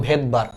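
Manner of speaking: ভেদবার্গ said with no S sound at the start; silent initial S. Shown as a demonstration. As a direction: begin ভেদবার্গ straight on the V, leaving the written S silent. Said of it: "উচ্চারণটা হলো".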